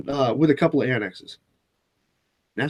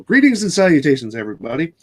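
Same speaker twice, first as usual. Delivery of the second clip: mock video intro; 2 semitones higher, faster than usual. Host greeting viewers at the start of a mock video, upbeat intro. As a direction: pretend to kick off a new video. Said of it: "let's act like we just started a new video".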